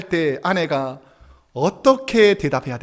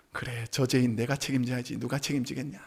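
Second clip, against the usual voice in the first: quiet resignation; 7 semitones lower, 9 dB quieter than usual. Acted. Resigned inner thought.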